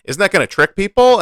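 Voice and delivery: imagined worried objection. Retold or imitated. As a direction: raise a doubt, pitch climbing into the question. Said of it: "be like".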